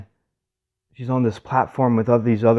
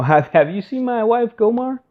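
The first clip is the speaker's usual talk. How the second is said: higher-pitched, hesitant, awkward question; embarrassed asking around; 12 semitones higher, 4 dB louder than usual. Retold or imitated. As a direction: ask around sheepishly, voice lifted high. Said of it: "this is kind of embarrassing".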